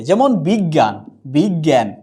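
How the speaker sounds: বিজ্ঞান said as "বিগ্গাঁন", a doubled গ; model pronunciation. Shown as a demonstration. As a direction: slowly give বিজ্ঞান as "বিগ্গাঁন". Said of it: "এ হচ্ছে বিগ".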